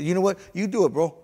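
high, loud, fed-up challenge; retold exasperation. Trainee telling his teacher to take over, exasperated. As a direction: throw the task back at him. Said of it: "And I was mad".

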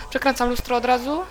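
usual speaking voice

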